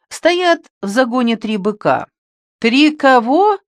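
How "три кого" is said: «Три кого?» asked higher, louder and slow; a baffled thug asking the shepherd back; startled, puzzled question. A narrator's reading. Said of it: "переспросил Бугай".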